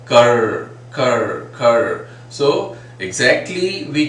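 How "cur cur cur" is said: cur with a rolled r sound; r-coloured vowel. Shown as a demonstration. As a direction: voice the r in cur, Indian style. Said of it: "just like we say er".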